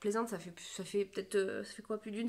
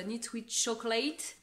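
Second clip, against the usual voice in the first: slow French-accented English with "chocolate" rising; deliberately clumsy English accent on "knits with chocolate"; bad English accent; slower than usual. Shown as a demonstration. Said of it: "mais avec mon accent pourri".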